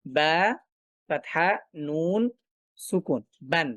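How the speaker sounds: "বা ফাতহা নুন সুকুন, বান" spelled out piece by piece, then blended; spelling out tanween. Shown as a demonstration. Teacher showing students how tanween sounds, spelled out in separate pieces. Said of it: "উচ্চারণটাতে আমরা পাচ্ছি হচ্ছে এরকম".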